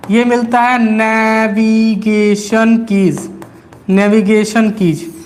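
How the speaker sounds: very slow listing of key names; slow dictation. Shown as a demonstration. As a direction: spell it out for students taking notes. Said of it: "मैं बहुत आराम आराम से बोल रहा हूँ". (धीमी गति से लिखवाना)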